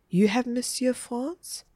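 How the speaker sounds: slow, high, hushed disbelief; astonished. A narrator's reading. Margaret to Egbert on learning of his teacher, astonished question. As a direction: ask slowly in wide-eyed wonder.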